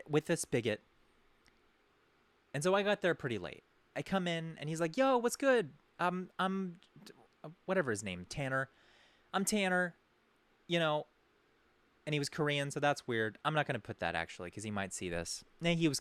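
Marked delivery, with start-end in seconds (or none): 5.0-11.1 bro greeting. Retold or imitated. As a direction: play the overfriendly party guy, lightly. Retelling Tanner's greeting.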